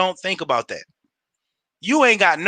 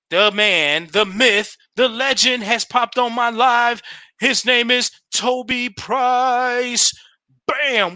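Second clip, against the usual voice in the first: hype announcer intro; 4 semitones higher, slower than usual. Acted. Hyping a guest joining live.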